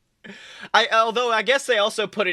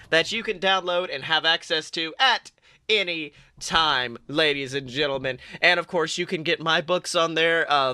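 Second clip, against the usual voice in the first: hammed-up sponsor pitch; ad read. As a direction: sell it like a radio host.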